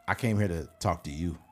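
calm firm. Retold or imitated. Retold calm put-down to date.

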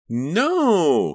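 high, loud wailed protest; anguished high cry, drawn out. A narrator's reading. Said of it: "Karina wailed".

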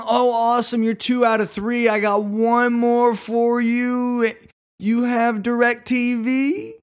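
high, loud and very slow sing-song pitch; chirpy saleswoman. Retold or imitated. Saleswoman on her third question to the shopper, high and slow. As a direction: lob the last question sweetly. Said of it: "And one".

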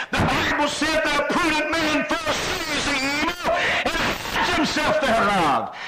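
insistent pulpit cadence climbing to a high cry; full-force preaching, building. Acted. Preacher rallying the congregation to meet it, climactic full-force preaching.

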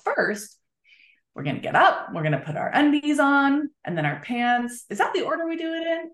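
put-on gently walking a child through the morning; light, singsong voice of a parent explaining each step; talking to a child. Shown as a demonstration. Parent walking child through the morning, light singsong. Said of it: "So here's what's gonna happen".

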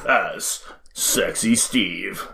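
slow breathy whisper; whispered trailer line. Pretend. Joining the trailer parody.

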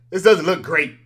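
chuckling through it; laughing. Real, not acted. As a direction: say it while laughing. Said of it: "repeats the line while laughing".

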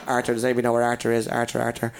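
lightly imitated guards calling on the radio, quick and low; imitated radio chatter. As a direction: rattle it off like a search over walkie-talkie. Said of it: "all you hear in the radio was like".

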